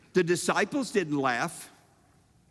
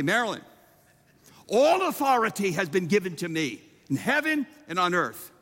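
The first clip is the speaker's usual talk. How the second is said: mock grand announcement to wife. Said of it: "and I say".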